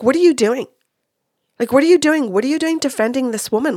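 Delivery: high, loud scolding of her son; outraged mother. Retold or imitated.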